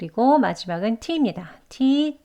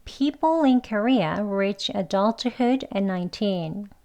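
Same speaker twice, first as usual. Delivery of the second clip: every word of the sentence slowly and evenly spaced; slow careful reading; much slower than usual. Shown as a demonstration. Teacher reading an example sentence slowly for learners. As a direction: read it out very slowly for the class. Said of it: "천천히 같이 해볼게요".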